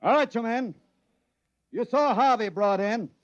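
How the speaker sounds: firm voice of a chief rallying his men; commanding address. Acted. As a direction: project the briefing to the whole crew. Chief giving orders to assembled men.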